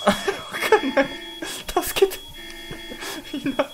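hit hard crying out. Real, not acted. Stuck again.

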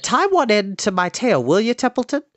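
lightly voiced high pig; eager pig. A narrator's reading. Pig asking the rat to tie string, lightly eager high voice.

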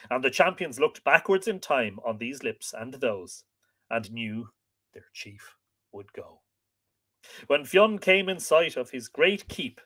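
measured, expressive storytelling voice; story narration. A narrator's reading. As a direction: read it like an old legend, stressing key words. Reads the tale aloud.

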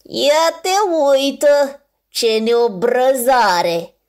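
loud, scornful, slowly drawn out; a loud, drawn-out mock outrage; scoffing. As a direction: scoff at his cheek. Second polar bear scoffs.

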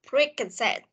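"preconcept", three words joined without a break; linked words. Shown as a demonstration. Teacher shows where to link, "preconcept" as one. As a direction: run beak-and-said together as "preconcept". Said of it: "Mình sẽ nối đây".

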